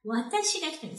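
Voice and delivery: Watashi high, ga Hitomi falling after it; stress on WATASHI. Shown as a demonstration. Teacher repeating her example to learners, stress on Watashi. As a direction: lift Watashi and let the rest drop. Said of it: "ga puts emphasis on the word before".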